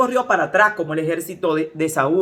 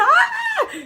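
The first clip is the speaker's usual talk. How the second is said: very high-pitched mock scream; imitated shriek. Church sister up on the pews over a frog, imitated shriek. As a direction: shriek as if something terrible happened. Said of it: "y chillando como que había pasado algo".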